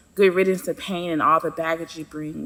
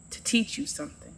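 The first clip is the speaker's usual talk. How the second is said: higher, softer, rising riddle; soft and cryptic; 8 semitones higher, 7 dB quieter than usual. Acted. Pain answering the narrator's question softly and cryptically. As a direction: tease it out quietly like a riddle.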